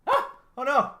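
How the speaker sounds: high, loud gasp of alarm; real dismay. Real, not acted. Animator spots a wrong-layer mistake, loud dismayed outcry. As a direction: cry out at a sudden mistake.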